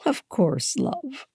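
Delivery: high, indulgent reply; amused, fond. A narrator's reading. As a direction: grant it with affectionate amusement. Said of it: "Mom laughed".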